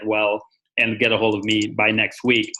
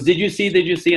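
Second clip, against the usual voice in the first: higher-pitched excited retelling; excited caller; 6 semitones higher than usual. Retold or imitated. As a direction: imitate a caller eager to share news. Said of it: "he was so excited".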